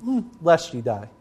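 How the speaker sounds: Hmm, lest ye die, offhand and softened; watered-down Eve. Shown as a demonstration. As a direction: take the sting out of it. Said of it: "Do you notice the difference there".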